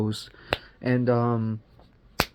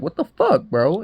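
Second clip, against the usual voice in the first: startled outburst; 4 semitones higher, 4 dB louder than usual. Retold or imitated. Voicing a startled woman in retelling.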